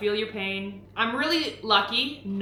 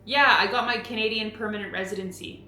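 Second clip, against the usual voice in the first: Canadian accent. Shown as a demonstration. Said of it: "Can you say it first?".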